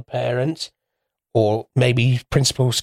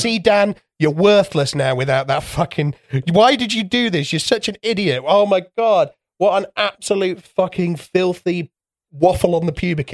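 higher, hammed-up scolding rant; mock berating; 6 semitones higher than usual. Mocking a friend who lost a bet, high hammed-up scolding. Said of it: "I'd be like".

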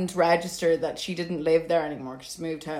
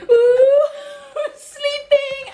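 very high, loud, eerie sing-song croon; creepy gremlin voice; 13 dB louder, much slower than usual. Retold or imitated. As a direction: wake the sleepers like a spooky little gremlin. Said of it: "like a gremlin".

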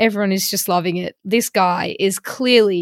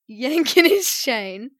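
laughing through the words, slowly; 4 semitones higher, much slower than usual. Real, not acted. Host laughing to co-host about teasing the catfish, amused. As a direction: chuckle it out as you admit the joke. Laughing while recounting the prank.

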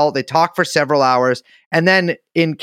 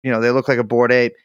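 dopey cartoon ape voice, a bit faster; bored ape voice; 5 semitones lower than usual. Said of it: "why are you talking in bored ape voice".

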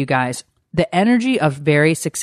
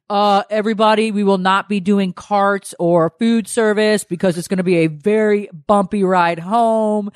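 pilot announcement. Retold or imitated. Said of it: "pilot ... says".

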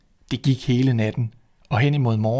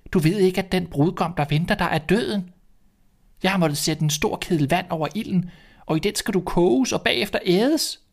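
put-on old woman voice; 7 semitones higher than usual. Old woman warns the girl.

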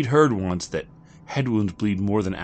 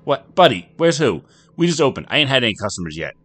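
high, loud puzzled bartender; a barman baffled by an angry customer; 7 semitones higher, 9 dB louder than usual. Acted. Bartender confused by stranger.

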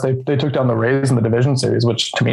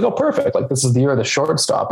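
sarcastic; 3 semitones higher than usual. Retold or imitated. Sarcastic retelling of the Yankees' logic.

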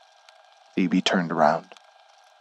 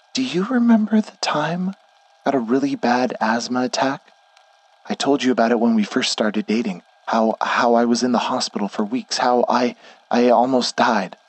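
high-pitched, halting character voice; higher voice of a frightened woman; fearful confession; 4 semitones higher than usual. Acted. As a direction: confess it anxiously, stumbling over the start. Frightened woman confesses her bargain.

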